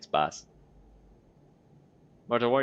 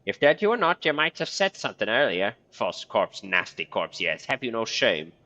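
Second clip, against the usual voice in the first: angry hiss; 2 semitones higher, 4 dB louder than usual. Acted. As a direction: scold the corpse sharply. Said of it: "She hisses ha-, angrily".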